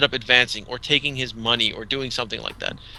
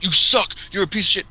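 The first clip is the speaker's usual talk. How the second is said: loud, high jeering outburst; mock trash talk; 7 semitones higher, 5 dB louder than usual. Imagined winner trash-talking the loser, hammed-up jeering. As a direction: draw out the cry and jeer. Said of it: "If they get all".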